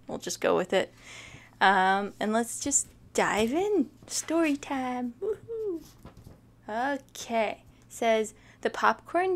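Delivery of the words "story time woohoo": cheery announcement. Real, not acted. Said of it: "cheerful show opener".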